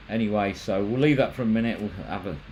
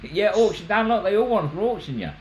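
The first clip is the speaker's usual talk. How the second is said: high, laughing teasing; excited teasing; 11 semitones higher than usual. Real, not acted. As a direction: egg him on playfully. Teasing Dan about being auctioned.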